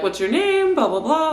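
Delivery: bright, high, chatty café owner; perky European shop owner voice. Retold or imitated. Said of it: "The owners are also very European, very chatty".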